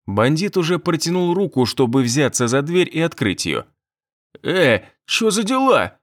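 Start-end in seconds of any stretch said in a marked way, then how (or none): 4.4-6.0 high, slow startled shout; startled cry. A narrator's reading. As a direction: cry out in surprise. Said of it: "раздался вскрик из комнаты".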